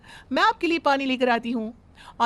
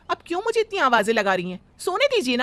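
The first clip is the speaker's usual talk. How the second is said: sleepy whine; 3 dB louder than usual. Acted. Bride woken for tea by mother-in-law, whining. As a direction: beg to keep sleeping.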